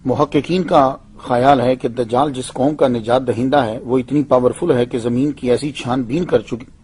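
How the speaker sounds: ordinary delivery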